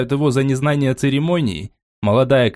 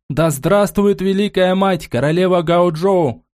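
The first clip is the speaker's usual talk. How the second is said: guards' cheer; 7 semitones higher than usual. A narrator's reading. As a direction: thunder it out like a guard. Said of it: "Гвардейцы дружно грянули". (дружный громкий возглас гвардейцев)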